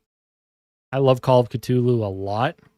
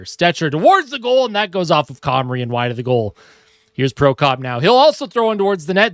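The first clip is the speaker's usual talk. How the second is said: hockey announcer calling the action; lively sportscaster call; live play-by-play; 2 semitones higher than usual. Acted. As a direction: call the game like a TV broadcaster. Mock hockey broadcast while playing.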